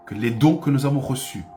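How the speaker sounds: normal talking voice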